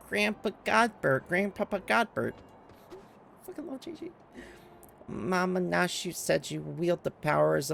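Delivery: put-on high, slow, earnest plea of a small boy; pleading child Gigi. Gigi begging Grandpapa Godbert to make him real, high and pleading. Reads Gigi's pleading cutscene lines.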